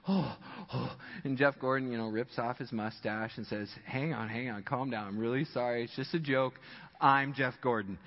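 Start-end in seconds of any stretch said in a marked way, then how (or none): 0.1-1.0 imitated stunned gasps. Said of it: "he's like". 3.9-8.0 mock calming reassurance. Jeff calming the frightened salesman.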